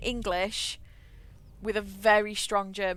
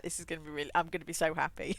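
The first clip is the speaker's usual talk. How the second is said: laughing; 3 semitones lower, much faster than usual. Real, not acted. Hoping to get the word right.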